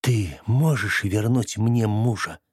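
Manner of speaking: slow, cold, icy question. Acted. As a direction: freeze him with each word. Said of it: "таким ледяным голосом".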